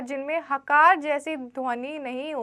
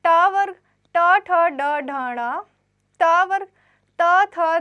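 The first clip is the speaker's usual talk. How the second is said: loud recitation; 3 semitones higher, 6 dB louder, slower than usual. Shown as a demonstration. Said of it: "और इन्हें किस भागों में बांटा गया?".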